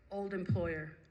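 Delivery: lightly voiced inner voice of God; measured, understated voice from within; a hint of solemn divine pronouncement; voice from deep within. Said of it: "this voice coming from deep down within".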